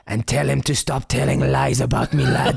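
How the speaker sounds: slow put-on voice, laughing at the end; imitating Tommy. Tommy signing off the call, slow mock voice with a laugh. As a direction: play the gruff caller, a laugh on the last word. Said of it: "he went".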